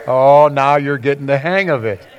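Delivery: amused voice talking to your own reflection; smiling at yourself. Retold or imitated. Pastor imitates someone smiling at their reflection in the mirror, lightly amused. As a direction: smile and tease yourself gently. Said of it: "smile and you're gonna say".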